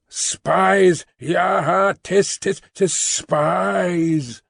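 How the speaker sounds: a man clapping hands to mouth and jeering, heated. Acted. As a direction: yell it with great ardour. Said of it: "vociferating in a surprising heat".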